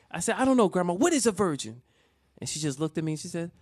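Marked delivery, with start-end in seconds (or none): 0.4-1.8 put-on higher-pitched puzzled kid; innocent bewilderment. Grandson asking grandma what a virgin is, innocent bewilderment. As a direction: ask it as a clueless child. Confused child asks grandmother in story.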